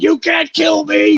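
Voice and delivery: action-hero shout. Acted. Movie hero climbs off the ground and shouts a defiant roar. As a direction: bellow it like an unkillable movie hero.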